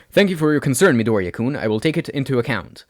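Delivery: lightly voiced earnest student; a hint of a stiff, polite boy; formal young man. Ida's formal reply.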